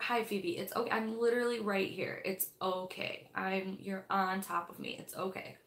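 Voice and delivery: hushed, gentle coaxing, fading to near whisper; imitating husband soothing the cat underfoot; soft coaxing to the cat. Husband hushing the cat, soft and coaxing. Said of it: "he will get ready in the morning".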